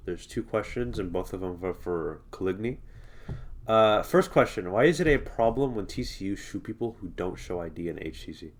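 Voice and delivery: talking with tissue up the nose; nose plugged with tissue. Real, not acted. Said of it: "so if I sound weird".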